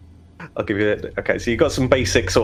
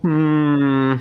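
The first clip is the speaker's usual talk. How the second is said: a hint of a measured overseer; slow, considered father voice; lightly voiced overseer weighing it up; stern father; slower than usual. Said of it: "he looks at you and goes".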